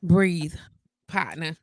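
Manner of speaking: breathe, through laughter; telling a friend to calm down, half laughing; laughing at a friend, telling him to breathe; laughing plea. Retold or imitated. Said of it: "I'd be like".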